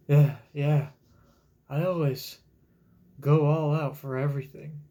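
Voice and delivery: loud, lightly voiced carefree Luffy. Reading Luffy's reply to the question, loud and carefree. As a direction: shout it like a breezy hero. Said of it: "says Luffy".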